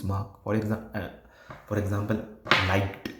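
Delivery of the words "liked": "liked" with a separately released final t; stretched E D. Shown as a demonstration. Teacher showing learners the E D ending, final t released. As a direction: hit the t that ends "liked". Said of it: "See how I'm stre".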